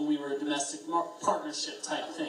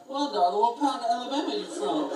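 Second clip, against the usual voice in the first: Matthew McConaughey; 6 semitones higher, 5 dB louder than usual. Retold or imitated. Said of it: "does his best Matthew McConaughey impression".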